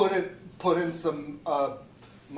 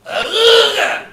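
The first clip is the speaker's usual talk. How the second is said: surprised; 10 semitones higher, 10 dB louder than usual. Acted. Reacting to doorbell.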